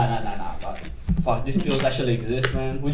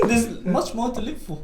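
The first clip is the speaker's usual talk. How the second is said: laughing, can't keep straight; 5 semitones higher, 7 dB quieter than usual. Real, not acted. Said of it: "You couldn't even say that straight".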